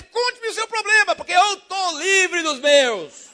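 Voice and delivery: lightly voiced carefree believer; joyful invitation. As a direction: open your arms to their troubles. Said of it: "tá escrito na testa".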